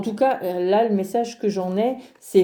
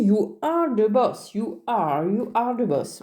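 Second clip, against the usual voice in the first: mock English accent; slower than usual. Shown as a demonstration. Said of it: "je sais même pas si mon accent".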